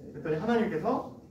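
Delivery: normal talking voice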